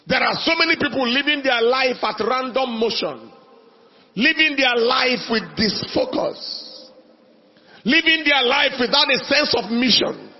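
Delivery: rising preacher's cadence on each living; preaching. Acted. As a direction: build the list like a pulpit sermon. Preacher building a repeated list.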